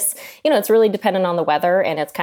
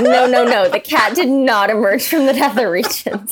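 laughing; 6 semitones higher, 5 dB louder than usual. Retold or imitated. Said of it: "I was like".

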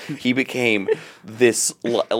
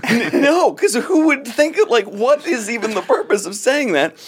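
laughing; 12 semitones higher than usual. Real, not acted. Laughing while telling story.

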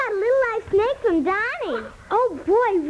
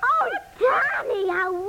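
delighted gush. Acted. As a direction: swoon over the gift like it's treasure. Child opens a present.

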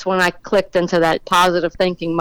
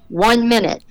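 mild mock yell, pitched higher; retold yell; 4 semitones higher than usual. Safety safari guy warns the team of the time, retold mild yell. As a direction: call it out without raising the volume. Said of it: "safety safari guy yells".

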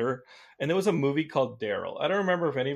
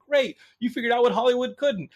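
higher, mocking sarcastic burn; sarcastic zinger; 10 semitones higher, 3 dB louder than usual. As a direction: deliver it as a smug insult. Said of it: "I'd be like".

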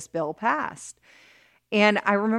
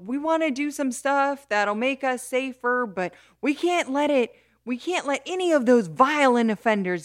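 higher, louder indignant legislator; hammed-up outrage at violent offenders; mock prosecutor rant; 5 semitones higher, 4 dB louder than usual. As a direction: play the scandalized ex-prosecutor. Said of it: "he stands up and he's like".

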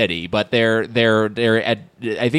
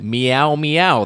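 cat meows; 4 semitones higher than usual. Pretend. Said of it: "they're saying".

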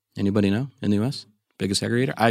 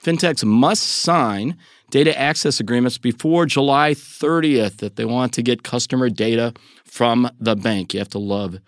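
emphatic podcast news read with deliberate pauses; news story read; 2 semitones higher than usual. Real, not acted. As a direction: present the story like an anchor. Host reads news story.

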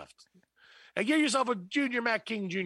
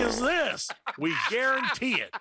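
hyped TV commercial voice; ad announcer; 3 semitones higher than usual. Acted. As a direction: sell it like a cheesy burger ad. Mock fast-food commercial read.

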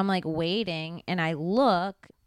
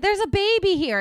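raised, high alarm; warning the crowd about the baby, raised voice; urgent call-out; 11 semitones higher, 4 dB louder than usual. Retold or imitated. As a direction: call it out to the crowd, higher and louder. Calling out alarm in parking lot.

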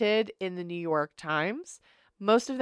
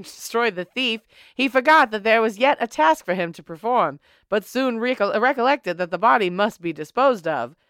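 put-on old-timey voice. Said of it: "use the old-timey voice".

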